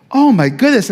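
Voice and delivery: genuinely bowled over; teacher's delight. Retold or imitated.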